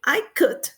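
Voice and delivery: COOKED in one syllable, "kukt"; correct past ending. Shown as a demonstration. Teacher modelling "yo cociné", correct past ending. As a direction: close COOKED straight on the T. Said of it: "Quieren decir es el pasado".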